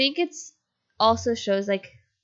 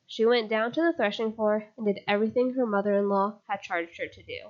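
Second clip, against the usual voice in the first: running out of air; breathless reading, air running out; out of breath. Real, not acted. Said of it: "Let me just catch my breath".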